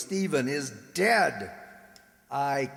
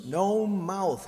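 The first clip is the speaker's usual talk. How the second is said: cruel taunt; 4 semitones higher than usual. Acted. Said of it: "why should he say it so cruelly?".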